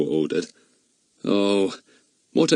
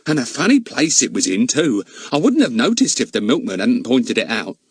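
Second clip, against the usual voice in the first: housekeeper voice; 2 semitones higher than usual. Acted. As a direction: pitch her up like a bustling charwoman.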